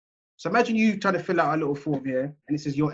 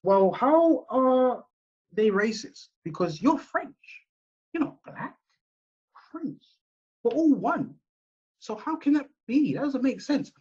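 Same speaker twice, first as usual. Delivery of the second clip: high, slow, talking-down boss voice; mock dismissive superiors; 9 semitones higher than usual. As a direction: ham up a boss brushing off the complaint, pitched high. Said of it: "They're gonna be like".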